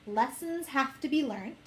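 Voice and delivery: lecturing sing-song; preachy tone. Retold or imitated. Mimicking the voice that always needles her, preachy. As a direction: say it like a scolding life lesson. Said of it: "I say it in that very particular tone".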